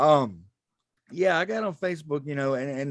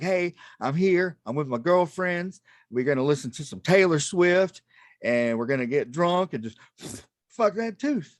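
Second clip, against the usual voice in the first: put-on drunk party girl. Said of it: "where you're like".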